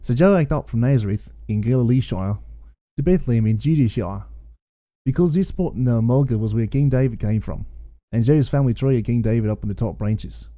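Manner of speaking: light put-on Australian accent, reading scripture; a hint of Aussie twang, read like a Bush yarn. Reading the Aussie Bible aloud to his co-host, lightly put-on Australian accent. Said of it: "I don't know why you had to read in an Australian accent".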